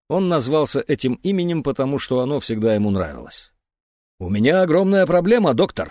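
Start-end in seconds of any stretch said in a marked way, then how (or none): 4.2-5.9 громкий отчаянный вскрик; выкрикнуть жалобу врачу; вскричал. Acted. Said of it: "вскричал он". (громко, с отчаянием)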